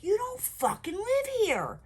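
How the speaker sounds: scared angry retort. Retold or imitated. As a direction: snap back, terrified. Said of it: "And I'm like".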